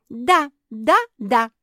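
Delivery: high, loud, eager yes yes yes; stomping excitement. A narrator's reading. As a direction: stamp your feet with glee. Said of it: "затопала лапами Наретта".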